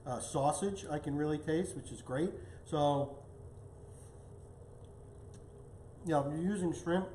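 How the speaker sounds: talking through a mouthful of food; chewing while he talks; mouth full. Real, not acted. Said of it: "pardon me for talking with my mouth full".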